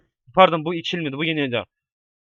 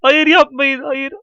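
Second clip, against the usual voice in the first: panicked no; 4 semitones higher, much slower than usual. Real, not acted. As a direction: plead in sudden panic. Falling off, begging.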